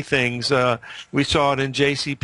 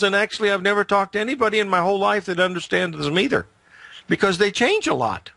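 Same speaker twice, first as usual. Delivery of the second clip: higher pitched, heated rant on fundamentals; worked up; 4 semitones higher than usual. Real, not acted. Radio host venting to listeners, higher and heated. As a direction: get fired up about it, pitch rising. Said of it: "Sorry to get emotional".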